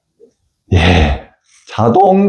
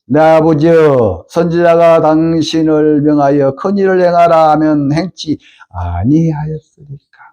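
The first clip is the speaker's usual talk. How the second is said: slow, solemn scripture read; servants' plea read aloud from the Bible. A narrator's reading. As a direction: read it out with weight. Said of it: "그 종들이 나와서 말하여 가로되".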